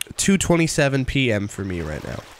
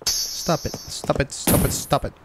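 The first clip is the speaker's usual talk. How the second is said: whispered pleading; 2 semitones higher, 4 dB quieter, slower than usual. Real, not acted. Whispered pleading at another player.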